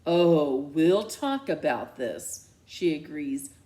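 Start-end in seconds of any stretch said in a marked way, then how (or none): 0.0-2.5 ominous threat. Acted. Mom ominously promising a talk. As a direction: promise trouble.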